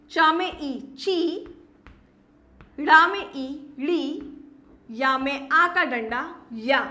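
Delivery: spelling out ची, ड़ी, या slowly, each syllable drawn out; teacher sounding out ची ड़ी या one by one for children. Shown as a demonstration. Teacher to kids, slowly sounding out syllables. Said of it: "अब मैंने".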